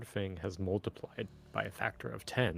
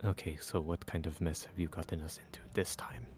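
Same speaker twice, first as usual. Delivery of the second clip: hushed, low half-whispered delivery; 4 semitones lower, 4 dB quieter than usual. A character leans into Arthrax to ask him quietly: half-whispering. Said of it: "leans into Arthrax and whispers to him".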